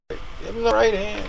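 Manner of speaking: high mock yell, no real volume; retold screaming. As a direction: imitate yelling advice at the fight. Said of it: "screaming, screaming the whole time".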